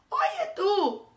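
high, loud hail; brash call. A narrator's reading. Grumpy ladybug hailing a sparrow, loud and brash. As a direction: call out rudely from afar.

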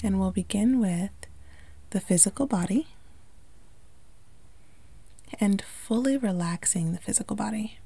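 calm meditation delivery with long pauses; unhurried, lightly hushed guiding into relaxation; guided meditation. Acted. Yoga instructor guiding listeners to relax the body, calm meditation voice.

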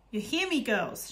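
mother yelling at her frozen daughters. Acted. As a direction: shout it at the girls, pleading. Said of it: "she was yelling now".

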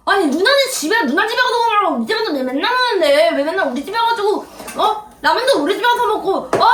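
indignant, whiny complaining; tearful rant. Real, not acted. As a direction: pour out your grievances while holding back tears. Brother's tearful rant at sister. (울먹이며 불만 쏟아내기)

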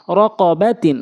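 syllables joined into one word; quick reading. Shown as a demonstration. Teacher showing how it must be read, quickly. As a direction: read it briskly, vowels short. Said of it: "দ্রুতটা উচ্চারণ করতে হবে".

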